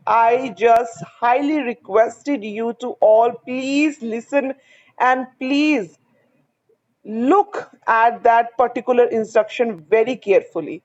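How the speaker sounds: slow, emphatic request to students; measured, insistent teacher's appeal; earnest plea. Real, not acted. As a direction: urge them slowly, pausing after please. Urging students to heed instructions.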